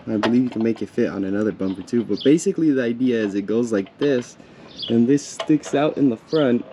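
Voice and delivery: sniffly, runny nose; snotty crying. Real, not acted. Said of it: "Sorry for my sniffling, my nose is running".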